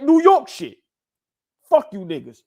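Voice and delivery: excited. Real, not acted. Hyped praise of the quote.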